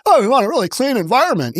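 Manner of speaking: fast mocking quote; mocking sing-song voice; mock do-gooder. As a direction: parody a smug do-gooder. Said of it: "because you're do-gooders".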